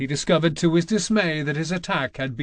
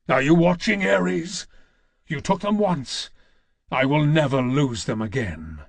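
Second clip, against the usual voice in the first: raised, ringing challenge hurled at a god; defiant shout. Acted. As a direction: call out to Ares, daring him to look. Kratos defies Ares in the temple.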